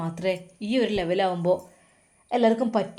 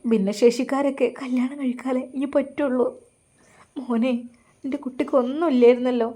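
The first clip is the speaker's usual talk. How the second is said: grieving mother; 4 semitones higher than usual. Acted. Grieving mother pleads with son.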